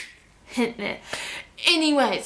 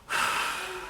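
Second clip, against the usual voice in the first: soft acted sigh; re-enacted shaky-moment sigh; 8 semitones higher, 9 dB quieter than usual. Fighting back the tears, a soft mock sigh. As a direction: let out a quiet sigh, imitating holding back tears.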